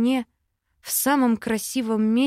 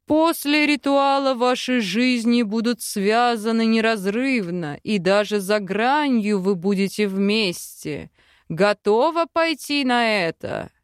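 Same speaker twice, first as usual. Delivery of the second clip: lightly voiced solemn chief; a hint of a grave tribal elder. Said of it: "снова спросил Сильвар".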